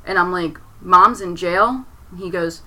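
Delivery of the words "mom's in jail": slow, rising disbelief, a bit louder; can't believe what she heard; stunned question. Retold or imitated. Repeating the stepdad's words back in shock. Disbelief at a misheard phone call.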